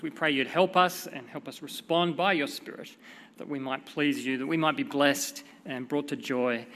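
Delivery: low, slightly subdued praying voice; prayer. Real, not acted. Preacher leads the church in prayer, low and subdued. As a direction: pray quietly and steadily to the Father.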